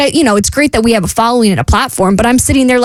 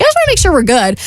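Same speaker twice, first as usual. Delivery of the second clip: reassuring friend; 6 semitones higher, faster than usual. Retold or imitated. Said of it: "she's like".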